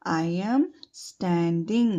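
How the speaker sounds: very slow, each word drawn out; slow model phrase. Shown as a demonstration. Teacher modelling the phrase slowly for children to repeat. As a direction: say it slowly for pupils to copy. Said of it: "I stand नहीं आएगा यहाँ पर".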